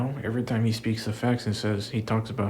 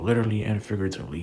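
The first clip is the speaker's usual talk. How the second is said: ordinary talk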